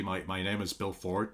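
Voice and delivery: "Bill Ford" said plainly, American-style; American accent. Pretend. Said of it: "no, actually".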